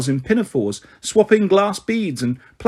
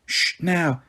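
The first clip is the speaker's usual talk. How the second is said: a quick, softer warning hush; sharp hush; 4 dB quieter than usual. Acted. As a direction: hush him sharply under the breath. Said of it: "Kitty said sharply".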